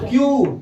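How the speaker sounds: "क्यू" with the final oo held long; drawn-out letter. Shown as a demonstration. Teacher showing students the hidden vowel, drawn out. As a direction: stretch "क्यू" so its vowel shows. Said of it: "अपन उसको खींचो, पता चल जाएगा".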